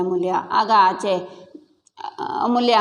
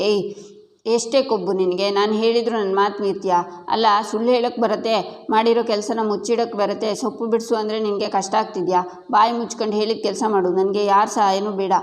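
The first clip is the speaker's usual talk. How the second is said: sharp, fast and raised, scolding hard; scolding mother-in-law. Acted. Mother-in-law scolds the daughter-in-law for disobeying, angry and fast. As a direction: tear into her for disobeying.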